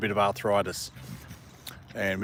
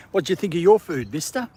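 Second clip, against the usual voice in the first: pet talk; 7 semitones higher than usual. Real, not acted. Asking the dog about food.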